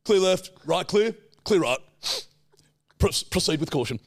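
formal cop radio chatter; police officer voice. Pretend. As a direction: call it like a patrol cop on the radio. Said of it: "That's how police officers speak".

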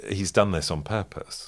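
hushed conspiratorial whisper. Real, not acted. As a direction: drop to a breathy whisper. Suggesting the friend did it deliberately.

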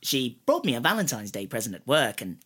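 a half-hearted go at the cartoon voice; cartoon character impression. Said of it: "trying my hardest to do impressions of it".

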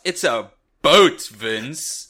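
high, laughing mock outrage at a word; mock disbelief. Retelling a first reaction to Vince, mock-outraged disbelief. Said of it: "And I thought".

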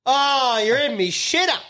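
high, laughing mock surprise; surprised bloke. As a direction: act out the bloke finding him in there. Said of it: "he goes in and he goes".

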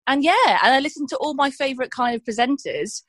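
usual speaking voice

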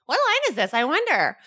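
high sing-song fake wondering; clueless line-cutters. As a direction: play innocent, pitch swooping up. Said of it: "we were also the same assholes".

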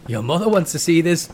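loud mock German jibe with high "Oh"; comic German accent, whooped ending; loose German accent. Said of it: "I'm doing a very loose German accent".

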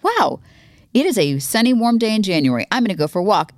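high-pitched wow, then lilting cheer; chirpy imitation of pleased self-talk; delighted self-quote. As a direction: replay your own happy amazement. Replays yesterday's delight at weather.

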